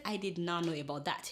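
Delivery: low, soft admission; imitated sheepish confession of ignorance; humbled reply. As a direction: own up meekly, voice sunk. Acts her humbled reply to friend.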